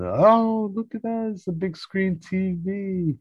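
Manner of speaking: high, hammed-up wowed exclamation; mock awe. Guests spotting the Drakes' big TV, mock awe. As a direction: imitate being dazzled by a new toy.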